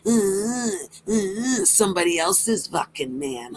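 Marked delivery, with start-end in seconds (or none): 0.1-1.7 higher-pitched imitation sobs; mock whimper. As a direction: whimper mockingly, pretending to cry. Mocking a rival as crying.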